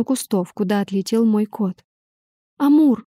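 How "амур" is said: louder, calling the cat. A narrator's reading. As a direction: shout the cat's name across the park. (громко зовёт кота)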